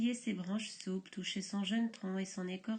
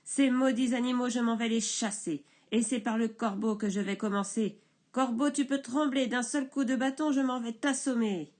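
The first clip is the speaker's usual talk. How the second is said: 1 menace en colère; 4 dB louder than usual. Acted. Menaces du bûcheron.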